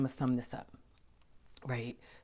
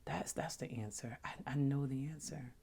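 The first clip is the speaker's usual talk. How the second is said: quiet self-talk; 6 dB quieter than usual. Retold or imitated. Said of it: "I remember saying to myself".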